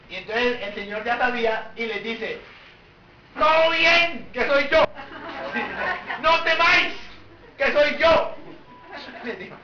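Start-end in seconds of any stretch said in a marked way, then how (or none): 3.4-8.4 breezy tonito. Retold or imitated. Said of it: "Y menos en ese tonito de".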